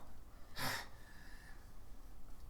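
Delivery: long, soft breath out; steadying sigh. Acted. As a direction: exhale to collect yourself before speaking. Acted character gathers himself.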